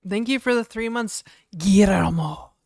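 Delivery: talking through crackers; words around a mouthful of crackers; mouth full. Real, not acted. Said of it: "Sorry, I have crackers in my mouth".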